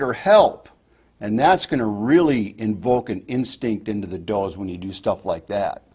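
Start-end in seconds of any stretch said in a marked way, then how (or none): 0.1-0.7 high, loud cry for help; a fawn in real distress calling out; high, loud panicked help. Shown as a demonstration. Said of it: "a fawn in distress".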